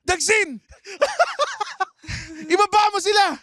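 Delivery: very high laughing shout; villain shout. Pretend. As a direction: command like a villain.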